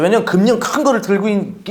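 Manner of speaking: normal talking voice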